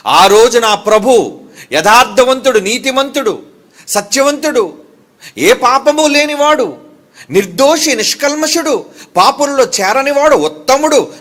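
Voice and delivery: fiery preaching. Acted. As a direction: proclaim each title with rising force. Preaching a list of praises. (ఉత్సాహంతో ఉపదేశం)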